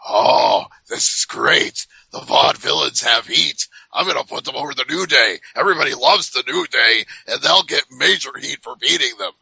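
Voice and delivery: a lightly voiced gleeful boss plotting, rubbing his hands; mock the scheming promoter, half-hearted; a hint of a greedy boss delighting in heat; scheming Vince McMahon. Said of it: "Vince McMahon rubbing his hands together going".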